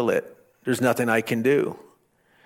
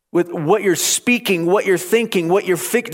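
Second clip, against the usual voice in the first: raised, high urgent plea to be still; urgent preaching; 4 semitones higher than usual. Retold or imitated. Moses urging people to be still.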